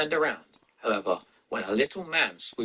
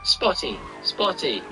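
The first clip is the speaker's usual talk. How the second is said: yelling taunt; 8 semitones higher, slower than usual. A narrator's reading.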